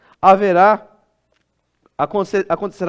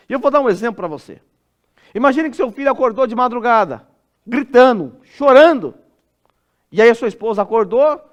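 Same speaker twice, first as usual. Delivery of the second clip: ordinary talk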